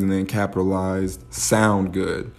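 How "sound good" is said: "sound" given the emphasis; stress on sound. Shown as a demonstration. Host explaining his capitalized tweet, stress on "sound". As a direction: put the weight on "sound". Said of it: "putting the emphasis on the word sound".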